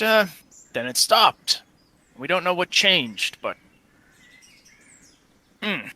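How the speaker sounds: a hint of a plain-spoken townsman in character; lightly voiced storytelling character. Game character recounting a past plague, lightly voiced. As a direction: tell it as lived memory, lightly in character.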